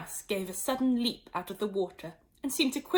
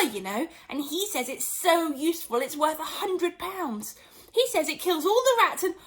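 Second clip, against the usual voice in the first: higher, louder, rising eagerness; eager chatter; 5 semitones higher, 4 dB louder than usual. Acted. Alice eagerly telling the mouse about a dog. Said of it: "Alice went on eagerly".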